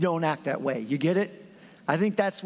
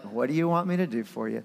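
lower, gentler Jesus; 5 semitones lower than usual. Retold or imitated. Preacher giving Jesus a lower, gentler question. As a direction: drop the voice lower and ask it gently. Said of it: "It might have been more like".

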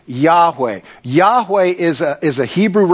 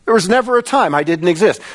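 lifted preaching voice, quicker pace; insistent declaration; 3 semitones higher, faster than usual. Acted. Preacher speaks as God to Moses, insistent declaration. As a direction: drive the declaration home, pitched up. Repeats God's declaration with more force.

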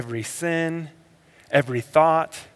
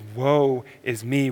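quiet woe; slower than usual. Shown as a demonstration. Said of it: "the natural response is".

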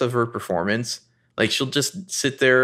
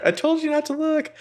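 mock warning voice. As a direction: draw it out high like a teasing warning. Host quotes line in put-on voice.

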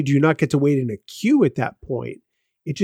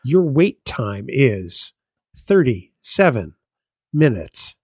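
slow recorded wait time; phone menu voice; 2 semitones lower, slower than usual. Pretend. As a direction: spell it out like a robot line. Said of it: "But that was good".

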